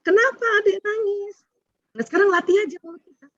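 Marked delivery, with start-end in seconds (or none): 0.0-1.5 wrong phrasing. Shown as a demonstration. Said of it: "yang diucapkan, eh, keliru".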